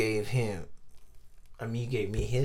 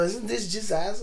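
higher, slow, raised exclamation; retold outburst; 10 semitones higher, slower than usual. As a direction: replay the moment, pitched up. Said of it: "I go".

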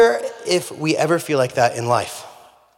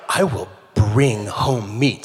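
mock determination; 4 semitones lower, much slower than usual. Hunter vows to chase the turkey.

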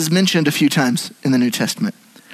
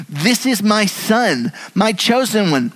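voice from the cloud; 6 semitones higher, slower than usual. Acted. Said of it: "Does this sound familiar to anyone?".

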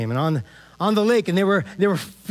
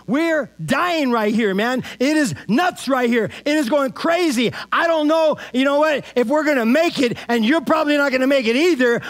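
panicked disciples; 6 semitones higher than usual. Retold or imitated. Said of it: "And they're freaking out".

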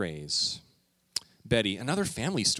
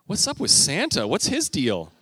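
loud, higher mock-outraged dad; indignant dad; 5 semitones higher, 6 dB louder than usual. Dad complaining to daughter about Santa, mock outraged. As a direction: rant at Santa like a miffed dad. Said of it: "more of a dad moment".

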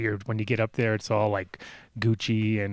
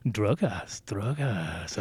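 Brazilian officer; 3 semitones lower, 5 dB quieter, much slower than usual. Retold or imitated. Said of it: "He's all".

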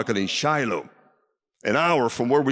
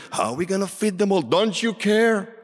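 higher-pitched imitated complaint; complaining; 7 semitones higher than usual. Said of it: "They complained the same way".

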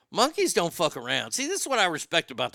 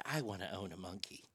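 mock naive owner; 8 semitones lower, 18 dB quieter than usual. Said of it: "I love it when people say".

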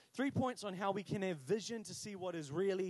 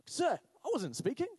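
high, indignant schoolboy plea; mock aggrieved pupil; pupil's protest; 6 semitones higher, 4 dB louder than usual. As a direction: protest your innocence to the teacher, high-pitched. Pupil protests unfair punishment.

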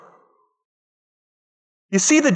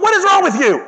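much higher, concerned question; concerned teacher; 12 semitones higher, 3 dB louder than usual. Retold or imitated. Teacher asking crying girl on the floor, high concern. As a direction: ask it gently but high and worried.

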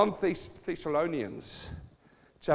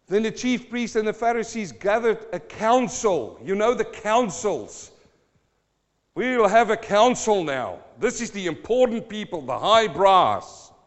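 raised, emphatic preacher's voice; forceful preaching; 8 semitones higher, 9 dB louder than usual. Real, not acted. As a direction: preach it out, leaning on the key words.

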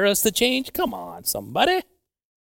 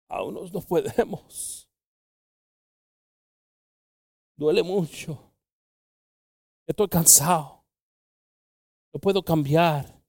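plaintive excuse; 5 semitones higher than usual. Retold or imitated. Voices people unable to smile or change.

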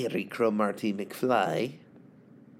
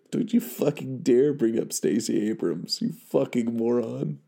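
louder heated rant; mock rant; 3 dB louder than usual. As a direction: rant at an imagined opponent, heated. Ranting at imagined opponent.

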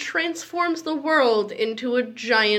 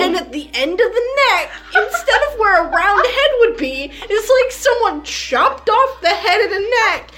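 laughing; 4 semitones higher than usual. Real, not acted. Keeps describing the horse, still laughing.

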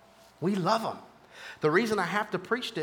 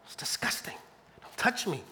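recoiling wife; 6 dB quieter than usual. Acted. Acting out a wounded wife.

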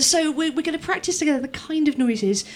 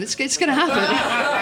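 excited anticipation; 5 dB louder than usual. Shown as a demonstration. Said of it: "voiced gasp".

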